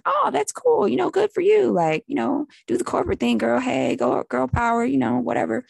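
high, bright fake enthusiasm; sing-song cheering her on, not meaning it; mock cheerful brush-off. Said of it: "And I'm like".

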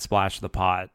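put-on tossing off the famous movie line in his accent; Malkovich line quoted. Poker players quoting Rounders, imitating Malkovich's accent. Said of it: "one person saying that".

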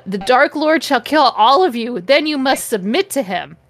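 mildly hammed-up ominous proclamation; mock menacing. Snape warns everyone about the Dark Lord, mock menacing. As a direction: declaim it with a touch of menace. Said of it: "Snape ejaculated menacingly".

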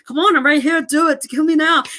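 high, excited mock action-hero urging; quoting movie line. Re-enacting the refrigerator door scene for a co-host, hammed-up high urging. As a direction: egg him on in a hammed-up high voice. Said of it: "like, he's quoting it".

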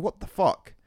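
high, exasperated what-the-fuck; mock disbelief at a lame excuse; retold outrage. Telling the manager's excuse to a friend, exasperated outburst.

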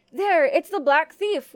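loud, drawn-out cry of alarm; guard calling out a discovery, slow and loud; exclaiming. A narrator's reading. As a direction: exclaim it with force, stretching the words. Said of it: "one exclaimed".

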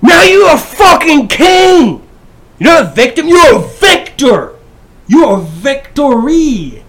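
high, loud, slow victory yell; triumphant shout. Real, not acted. Hyping up the bullied viewer, loud triumphant slow shouting. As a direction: roar it like crowning a champion.

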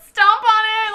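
high, loud, laughing command; hammed-up panicky order; mock frantic shout. Student begging neighbour to stomp on spider, mock frantic shout.

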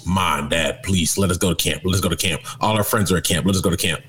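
put-on low, pleading kid whine; whiny kid begging. Kid begging mom and dad to go to camp, whining. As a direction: beg like a child wanting camp.

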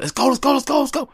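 high, loud hype chant; cheering someone on, high and loud. Retold or imitated. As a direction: pump them up like a hype man. Hyped cheering, rallying someone on.

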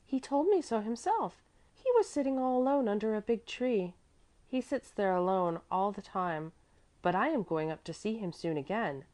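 put-on little girl Mäzli. A narrator's reading. Little girl informing anxious woman of steward, high child's voice. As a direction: tell it as a confident little girl.

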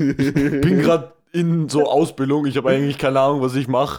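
mocking a friend's words to the bee; mocking quote. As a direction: imitate the clumsy student. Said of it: "sagt basically so".

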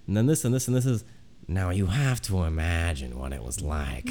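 a hint of Dan Carlin's flashback narration; lightly voiced grave history storyteller; Dan Carlin impression. Imitating Dan Carlin's flashback narration, lightly voiced. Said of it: "he's like".

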